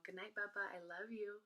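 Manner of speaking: softly imitated bedtime goodbye; soft, soothing goodnight to a baby; tender goodnight. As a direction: say it softly, as if leaving the nursery. Mother saying goodnight to her baby.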